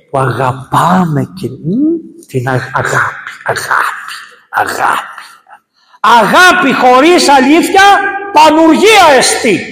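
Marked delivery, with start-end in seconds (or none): 2.3-5.1 love repeated, dying away to a whisper; soft fade into whispered love; fading to a whisper. Acted. Preacher fades love to a whisper. 6.0-9.6 high, loud and slow, full pulpit force; booming preacher's warning; loud declaration. Real, not acted. Preacher declares love without truth.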